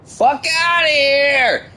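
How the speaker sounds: loud, slow mocking shout; drawn-out yell. Real, not acted. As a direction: drag out the shout at him. Yelling at game rival.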